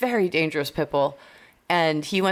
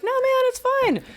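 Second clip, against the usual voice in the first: mock casual reply. Mocking what they told trainers.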